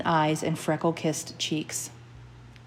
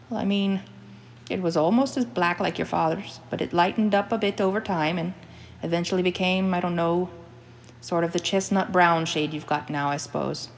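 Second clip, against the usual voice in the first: put-on mother's Scottish accent. Mother recalls baby hair colour.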